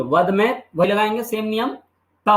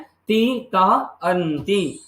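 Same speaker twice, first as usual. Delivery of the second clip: slow recitation; much slower than usual. Shown as a demonstration. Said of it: "क्या याद करना है?".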